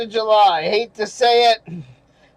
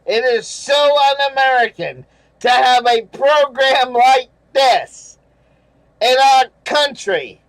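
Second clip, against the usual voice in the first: indignant reading; 3 semitones higher, 3 dB louder than usual. Retold or imitated. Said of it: "Third paragraph down".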